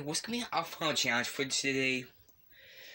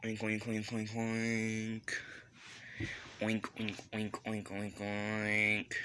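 oinking; 4 dB quieter, slower than usual. Pretend. Calling the pig along.

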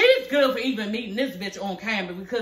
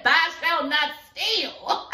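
mock scripture; 4 semitones higher, much slower than usual. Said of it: "in the Bible it say".

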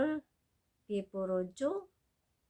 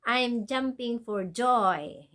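slow joyful phrase; 3 semitones higher, 5 dB louder, much slower than usual. Shown as a demonstration.

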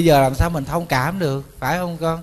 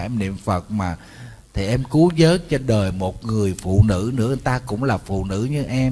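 gently wheedling husband, imitated; mock-tender pleading in a slightly lowered voice; mock coaxing; 2 semitones lower than usual. Husband coaxes wife to accept mistress.

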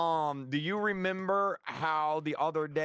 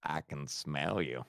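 much lower silly duck voice; 12 semitones lower, 4 dB quieter, slower than usual. Pretend. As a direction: put on a goofy duck voice. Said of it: "Why do you sound like a duck?".

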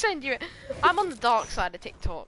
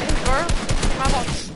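put-on voice; 6 dB louder than usual. Put-on voice repeat.

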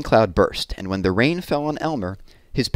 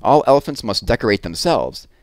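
excited announcement; 3 dB louder than usual. Acted. Elephant proclaims Elmer's Day.

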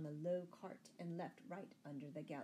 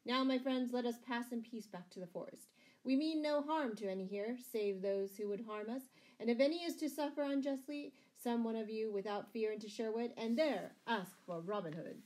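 raised-voice speech to a crowd; public address; 4 semitones higher, 4 dB louder than usual. A narrator's reading. Robin addressing the townsfolk before leaving, proclaiming. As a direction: proclaim your goodwill to all present.

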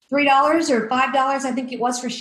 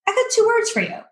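retold defiance; 10 semitones higher, faster than usual. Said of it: "And I went".

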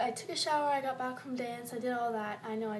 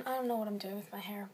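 whisper; 2 semitones lower, faster than usual. Real, not acted. Quick whispered aside.

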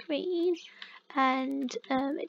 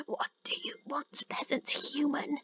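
haughty budgie; 5 dB quieter than usual. Retold or imitated. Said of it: "she's calling saying".

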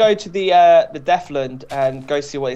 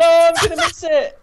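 excited shout; 12 semitones higher, 4 dB louder than usual. Real, not acted. Echoing panic.

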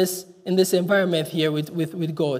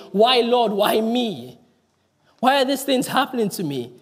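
a mild imitation of Job crying out to God; 2 semitones higher than usual. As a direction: plead upward, lifted and anguished. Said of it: "is crying here".

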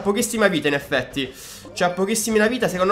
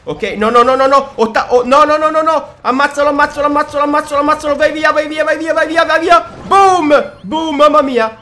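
high, loud, hyped chanting of every move; breathless excitement mid-match; frantic gameplay commentary; 5 semitones higher, 4 dB louder than usual. Real, not acted. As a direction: cheer the fight on like a live caller.

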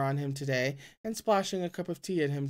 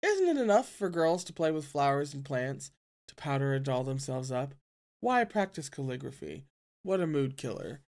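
gruff voice; 2 semitones lower than usual. Acted. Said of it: "say in a gruff voice".

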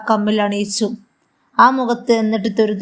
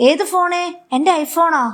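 alarmed disbelief; 7 semitones higher than usual. Acted. Son hears his phone fell, higher alarmed disbelief. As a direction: pitch jumps higher in shocked alarm.

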